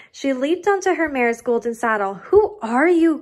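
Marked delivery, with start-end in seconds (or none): 2.3-3.2 loud call after her, higher. A narrator's reading. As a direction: shout it after someone riding off. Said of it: "called the prince".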